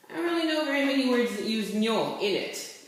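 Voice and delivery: normal talking voice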